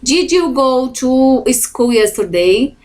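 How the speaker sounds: rising question tune ending on "yesterday?"; question intonation. Shown as a demonstration. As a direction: lift "yesterday?" upward like a real question. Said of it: "tem que ter entonação de pergunta".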